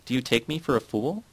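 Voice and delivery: mildly indignant challenge. A narrator's reading. Titus refusing to be fooled, indignant. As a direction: put the question as an affronted retort. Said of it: "Titus said indignantly".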